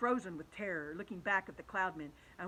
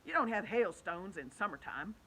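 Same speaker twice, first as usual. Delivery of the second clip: scoffing; 6 dB louder than usual. Acted. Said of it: "the centipede said".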